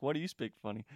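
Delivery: lightly mimicked Manchester English accent; imitated English accent. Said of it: "she has this English accent".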